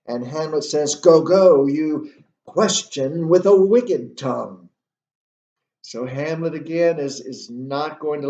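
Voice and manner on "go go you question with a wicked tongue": loud, higher-pitched acted defiance; defiant retort. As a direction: fling the accusation back, refusing to back down. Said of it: "He's not going to back down here".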